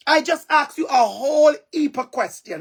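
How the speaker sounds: a light Jamaican patois phrasing; lightly Jamaican-flavoured delivery; Jamaican dialect. Shown as a demonstration. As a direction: say it the Jamaican way, easy and natural. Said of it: "That's a Jamaican dialect".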